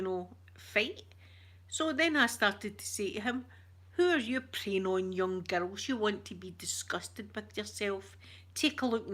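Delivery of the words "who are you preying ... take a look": mildly indignant telling-off; full scolding mummy. Retold or imitated. Streamer retelling her row with a creep, mild mummy scolding. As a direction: retell it as a mum giving a row. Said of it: "I went full mummy, absolute disgrace".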